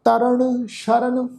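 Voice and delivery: slow Gurbani verse with stretched vowels; measured, sustained sacred reading; scripture recitation. Shown as a demonstration. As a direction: recite line by line, slowly and steadily. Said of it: "ਪਾਠ ਉਚਾਰਨ ਕਰਦੇ ਹਾਂ".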